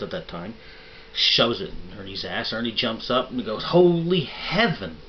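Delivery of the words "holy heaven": high, loud, drawn-out cry; startled yelp. Acted. Ernie jumps up in church after the needle, loud slow yelp. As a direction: jolt up and holler it slowly.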